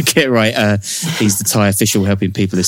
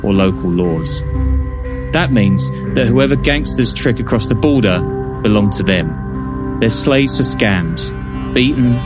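measured true-crime narration over music; documentary narration. Acted. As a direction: read it like a dramatic crime documentary. Narrated podcast intro over music.

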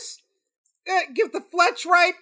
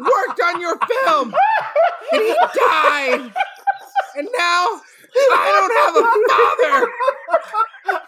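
laughing through fake sobs; 5 semitones higher than usual. Grieving son laughing through.

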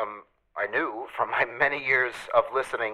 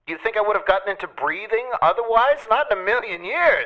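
exasperated; 8 semitones higher, 3 dB louder than usual. Real, not acted. Exasperated outburst about breathing.

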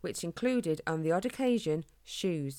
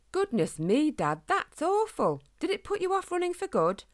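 a lightly voiced boy, higher and concerned; boy hedgehog asking his father, higher and anxious; young hedgehog; 11 semitones higher, 4 dB louder than usual. A narrator's reading. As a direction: play the son, worried for his dad.

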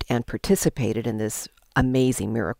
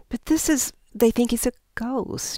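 breathy ghost-story whisper, higher; spooky whisper; 9 semitones higher than usual. Acted. Leader telling the group they think he's a ghost, in a spooky whisper. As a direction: hush it like a campfire ghost tale.

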